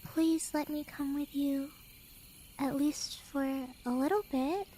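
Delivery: hushed, begging softly; soft pleading. Acted. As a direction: plead quietly to be taken along. Begging to come along.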